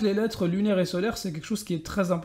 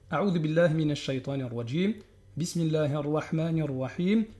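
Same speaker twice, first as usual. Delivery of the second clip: recitation; 2 semitones lower than usual. Shown as a demonstration. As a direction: recite the opening formula. Opening recitation formula.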